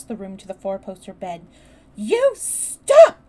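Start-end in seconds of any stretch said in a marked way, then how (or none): 2.0-3.2 high, loud furious command; explosive, high-pitched order; near shout. A narrator's reading. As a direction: shout him down at full tilt. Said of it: "she almost shouted".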